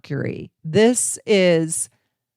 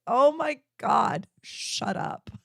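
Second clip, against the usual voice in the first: slow oh my God, then a breathy shut up; exasperated under the breath; fed-up hush; 6 semitones higher, slower than usual. Retold or imitated. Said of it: "It's like".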